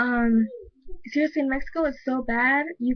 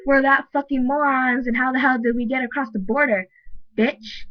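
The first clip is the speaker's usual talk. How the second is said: angry retort. Real, not acted. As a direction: fire it back at them, offended. Angry retort to racist video girls.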